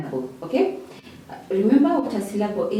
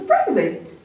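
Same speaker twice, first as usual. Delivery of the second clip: the gift word "present", PRE-zent; stress on first syllable. Shown as a demonstration. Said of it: "this is a noun".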